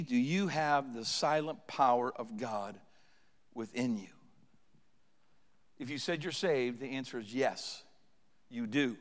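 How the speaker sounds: low, measured, softened preaching; hushed solemn appeal. Real, not acted. Preacher quietly asking the congregation about God's power, hushed and solemn. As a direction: bring the voice down low and ask it gravely.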